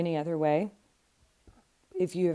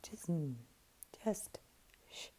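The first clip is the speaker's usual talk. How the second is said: hushing whisper; 8 dB quieter than usual. Retold or imitated. Therapist quoted shushing the parent.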